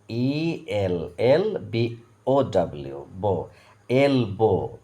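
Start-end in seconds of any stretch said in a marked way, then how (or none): 3.9-4.8 "এলবো" split slowly into এল and বো; syllable by syllable. Shown as a demonstration. Teacher models the word for learners, syllable by syllable. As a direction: say "এলবো" in two clear beats. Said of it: "এইভাবে দেখো উচ্চারণটা করো".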